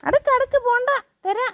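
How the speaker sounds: high, loud sharp order; sharp command. Real, not acted. Scolding the dogs to stop, loud sharp command. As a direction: stop them at once.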